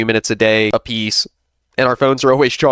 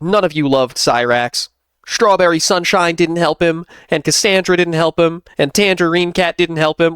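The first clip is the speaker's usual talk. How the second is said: higher, slow sing-song whine; a higher mocking take on Sally's complaint; mocking impression of Sally; 6 semitones higher than usual. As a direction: mimic her self-pitying list. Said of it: "she was like".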